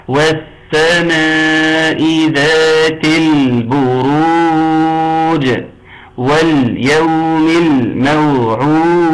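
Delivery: slow chanted verse, drawn-out vowels; slow tajweed chant of والسماء ذات البروج; Quran recitation. Shown as a demonstration. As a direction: recite it melodically, each lam clear. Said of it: "أنا عاوز كل قراءتك كده".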